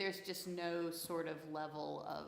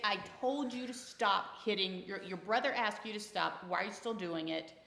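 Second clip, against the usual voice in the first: forceful scolding; 3 semitones higher than usual. Retold or imitated. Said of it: "Or more forceful".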